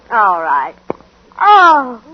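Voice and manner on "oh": surprised gasp. Acted. Wife opens the gift box.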